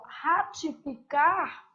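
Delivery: "Ratificar" dito devagar, sílaba por sílaba; ratificar lento. Shown as a demonstration. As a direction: pronuncie "Ratificar" com calma, marcando o RA. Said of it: "é o contrário de retificar". ("Ratificar" bem pausado, destacando o a)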